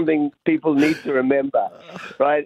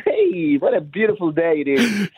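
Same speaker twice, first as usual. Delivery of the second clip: mock cheerful greeting. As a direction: play a blithely unbothered local. Acting carefree locals among snakes.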